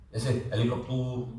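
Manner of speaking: helicopter said halikoptur, Arabic vowels and rolled r; Arabic-accented word. Shown as a demonstration. Teacher mimicking how Arabs say the word, Arabic-style pronunciation. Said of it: "they don't say helicopter".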